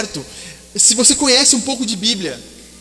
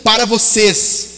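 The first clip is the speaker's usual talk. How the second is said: God's voice, proclaiming. Acted. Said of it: "Deus estava dizendo".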